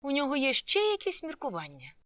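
high, loud incredulous question; exasperated exclamation. A narrator's reading. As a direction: cry it out as if you can't believe it. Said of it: "вигукнув Санджай".

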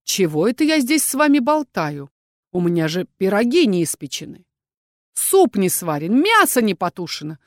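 ordinary delivery

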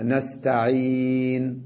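very slow chanted نستعين, stopped silent while rounding the lips; ishmam stop. Shown as a demonstration. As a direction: round the lips after نستعين, no vowel heard. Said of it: "يضم شفتيه". (وقف بالإشمام على نستعين ببطء)

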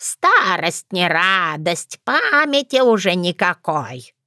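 slow, creaky granny lament; doddering old woman. Acted. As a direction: sigh it out like a forgetful hag. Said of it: "подыграла я ей".

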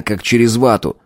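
ordinary delivery, nothing marked

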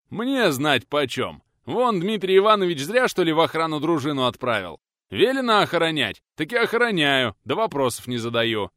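guard defending his orders loudly; irritated guard. Acted. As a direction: bark back about orders.

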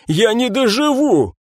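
high, slow wail; mock despair. Captain clutching his heart, slow hammed-up wail. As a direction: lament theatrically.

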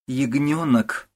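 pleading mother-in-law. A narrator's reading. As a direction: beg her, stretching the name. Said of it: "умоляет фрау Пиннеберг".

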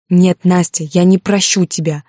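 a hurt man snapping back at her; angry shout. Acted. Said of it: "крикнул он".

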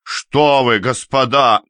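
the peacemaker still shouting; pleading shout. Acted. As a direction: shame them loudly. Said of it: "кричал Ряжский".

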